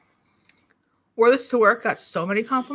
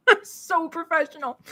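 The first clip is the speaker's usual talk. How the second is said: sarcastic; 6 semitones higher than usual. Real, not acted. Laughing at own mishap.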